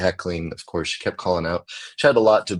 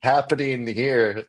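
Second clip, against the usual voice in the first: mock bewildered; 6 semitones higher, slower than usual. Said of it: "Which is already like".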